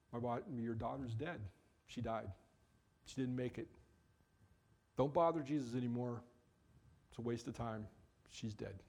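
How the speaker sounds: quiet, heavy, fading delivery; somber news. Acted. Messengers breaking the news to Jairus, quiet and heavy. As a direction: messengers telling Jairus his daughter died.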